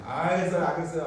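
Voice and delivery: put-on mildly exasperated child giving in; grudging, childlike "okay, okay"; 아이 같은 마지못한 대답. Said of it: "우리 애들처럼". (아이처럼 마지못해 대답하듯)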